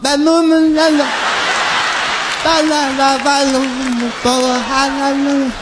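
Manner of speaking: put-on babbling like a toddler; sing-song baby babble; child voice. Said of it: "I start talking like a little kid".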